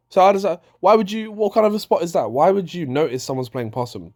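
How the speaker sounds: real disbelief, voice climbing; exasperated rant. Real, not acted. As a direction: throw up your hands at the nonsense. Ranting about a botched spot.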